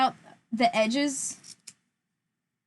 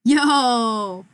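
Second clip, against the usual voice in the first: excited; 6 dB louder than usual. Real, not acted. Excited exclamation.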